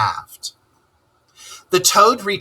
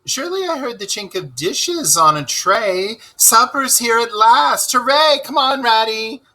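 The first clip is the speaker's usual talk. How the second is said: excited; 11 semitones higher than usual. Acted. Toad hears supper arriving.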